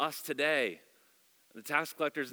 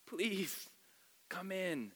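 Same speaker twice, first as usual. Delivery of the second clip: pleading; 6 semitones higher, 5 dB quieter, much slower than usual. Retold or imitated. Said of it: "He pleaded with him".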